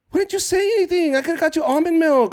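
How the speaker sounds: high, loud, fast alarmed woman; shocked rep. Retold or imitated. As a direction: play the rep horrified on his behalf. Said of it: "the rep asks".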